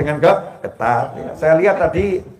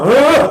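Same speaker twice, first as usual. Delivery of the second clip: exasperated huh; 8 semitones higher, 6 dB louder than usual. Acted. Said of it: "Walaupun sama".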